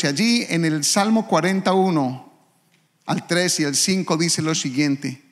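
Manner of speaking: ordinary talk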